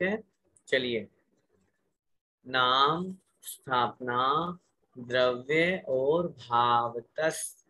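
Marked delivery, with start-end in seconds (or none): 2.5-7.6 very slow, each word separated, with the ending स dropped lightly; slow careful recitation. Shown as a demonstration. Teacher explaining the sutra's words, very slow. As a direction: break the sutra into its words, very slowly. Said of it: "आधा स विसर्ग बन जाएगा".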